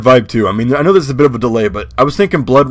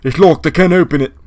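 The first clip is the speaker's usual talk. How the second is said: British rocker voice; 3 semitones higher than usual. Pretend. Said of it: "let me know if the voice is a little too much".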